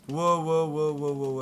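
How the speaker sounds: loud startled wow wow; shouting wow in surprise; excited. Real, not acted. Sudden surprise during gameplay.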